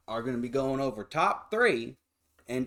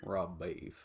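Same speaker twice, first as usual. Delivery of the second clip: whispered; 5 semitones lower, 8 dB quieter than usual. Real, not acted. Hushed echo of the joke.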